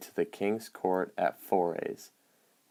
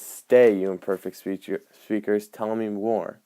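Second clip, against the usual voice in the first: demanding; 4 dB louder than usual. Shown as a demonstration. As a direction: order them to stay, then press for more. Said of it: "He's in a demanding tone".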